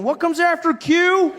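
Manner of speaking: high, loud, drawn-out mock confusion; baffled dimwit. Comic mimicking people stuck on English letters, high mock-baffled cry. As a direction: play someone hopelessly puzzled by the alphabet. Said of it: "there's still people going".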